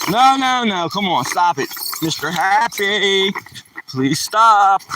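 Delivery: high, loud no no no, then please stop; alarmed loud pleading. Real, not acted. Owner pleading with an overexcited dog, high and loud. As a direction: beg the dog to quit, voice rising.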